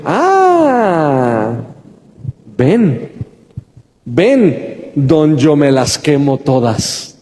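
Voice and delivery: seductive enemy. Acted. Enemy flattering the believer's ego to seduce them, mock-seductive. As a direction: lure them in with stretched, swooping invitations. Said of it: "va a tratar de seducirte".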